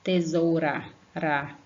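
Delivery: flick the R lightly in "ra"; "Tesoura", then its last syllable "ra" alone, unforced; weak R. Shown as a demonstration. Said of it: "Som fraco é isso".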